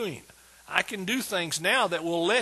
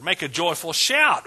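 "shout" punched loud at the end; stress on SHOUT; 6 dB louder than usual. Shown as a demonstration. Preacher taking each word of the verse, stress on "shout". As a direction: build up to a hard, loud "shout". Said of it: "I'll just take each word".

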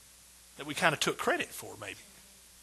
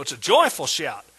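"joyful" punched louder; stress on JOYFUL; 2 semitones lower, 7 dB louder than usual. Shown as a demonstration. Preacher explaining what kind of shout, stress on "joyful". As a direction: hit "joyful" hard, then let "shout" fall. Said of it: "I'll emphasize different words".

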